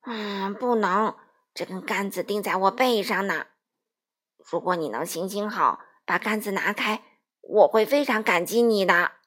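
a lightly voiced straw man asking a favour; pleading scarecrow. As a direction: scarecrow asking Dorothy to lift it off the pole. Scarecrow asks to be freed.

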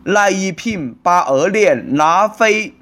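slow, spaced-out syllables; slow explaining. Acted. Shop owner explaining what the password stands for, slowly. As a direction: spell out the phrase piece by piece.

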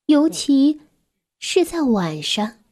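gentle, measured storytelling with long pauses; children's story narration. A narrator's reading. Narrator tells a child about a grieving mouse family, measured storytelling.

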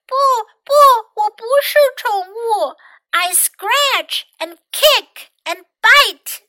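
loud, high-pitched indignant protest; big yelling voice. A narrator's reading. Trapped mouse refusing to be a pet, yelling. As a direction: yell it big, far up in pitch. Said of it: "yelled in a big, big voice".

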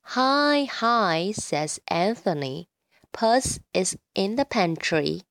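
reading slowly, every word clear; slow, over-enunciated nursery rhyme; slow careful reading. Shown as a demonstration. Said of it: "我来慢慢地朗读一遍".

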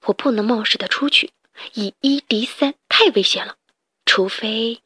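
hushed inner voice; thinking aloud. Acted. Hero thinks to himself.

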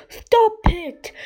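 high, loud urgent order; sharp rise into a shout; alarmed yell. A narrator's reading. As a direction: yell to halt it at once. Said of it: "yelled Harold".

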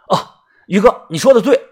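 high-pitched yes-man voice; agreeable sidekick. Acted. Sidekick agreeing with Brother Yu, high and compliant.

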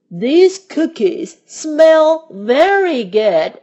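high, slow, delighted sniff; Toad voice. A narrator's reading. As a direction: savor the smell like an excited toad. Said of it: "said Toad".

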